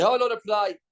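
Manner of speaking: mocking excuse.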